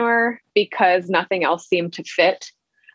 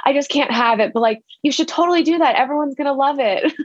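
sweet little sister quoted; 7 semitones higher than usual. Retold or imitated. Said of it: "She was like".

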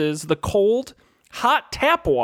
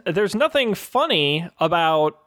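PSA announcer; slower than usual. Pretend. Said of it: "a P S A".

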